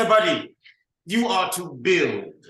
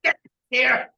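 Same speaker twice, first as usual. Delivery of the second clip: loud command; 10 semitones higher, 4 dB louder than usual. Acted. Commanding the herd.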